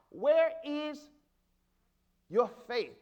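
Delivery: a spaced-out, pressing question; emphatic challenge. Real, not acted. Preacher asks the church where their faith is, emphatic challenge. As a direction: drive each word home, with pauses between.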